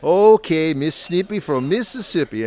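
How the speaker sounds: loud, high mock Southern retort; put-on Southern accent. Husband answering his wife's comment in a put-on Southern accent. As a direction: come back teasingly in a Southern accent. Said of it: "He did the Southern accent".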